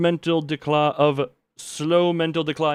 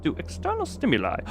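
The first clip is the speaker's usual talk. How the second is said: grim report read. Acted. Streamer reading the doctor's bleak experiment notes. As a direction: read the failure log gravely. Reading game's research log.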